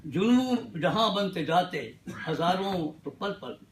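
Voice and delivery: measured Urdu verse with dramatic pauses; mushaira-style poetry delivery; ghazal recitation. Acted. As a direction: recite the couplet phrase by phrase, letting each land. Recites Urdu ghazal couplets to audience.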